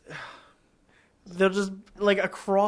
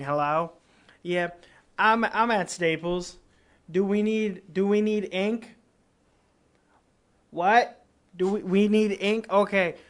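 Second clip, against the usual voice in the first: loud, higher store-phone talker; speakerphone shopper; 4 semitones higher, 4 dB louder than usual. Retold or imitated. Shopper on speakerphone asks about ink across the store, loud and oblivious. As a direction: talk up into a speakerphone for everyone to hear. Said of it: "have their phone on speaker and walk around the entire store talking".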